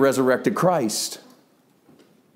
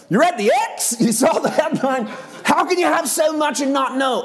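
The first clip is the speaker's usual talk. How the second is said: mock incredulous questioning; 11 semitones higher than usual. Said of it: "'cause it's like".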